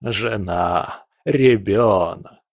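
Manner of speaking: taste the words coldly; savoring the words. Acted. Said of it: "смакуя эти слова".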